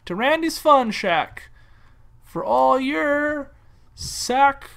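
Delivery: drawn-out promo voice, stretched key words; mock advert pitch. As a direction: sell it like a hokey local ad.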